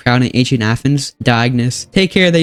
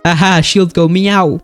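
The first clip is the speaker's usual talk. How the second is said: cat meow voice; 4 semitones higher, slower than usual. Acted. Cat shield soldier mocking.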